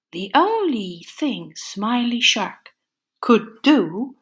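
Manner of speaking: lively storybook reading with playful whispers; animated picture-book narration; reading to children. A narrator's reading. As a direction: read it like story time for little ones. Reads a picture book aloud.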